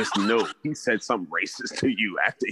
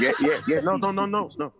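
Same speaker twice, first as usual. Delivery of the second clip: laughing; 13 semitones higher than usual. Real, not acted. Laughing denial after co-host's whoa.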